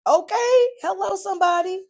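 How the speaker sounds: high, loud church-style shout; preachy call-out. Real, not acted. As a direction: call out to the congregation.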